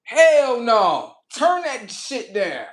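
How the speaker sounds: high, loud cat complaint; indignant cat. Retold or imitated. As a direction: voice a cat protesting the noise. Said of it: "they be like".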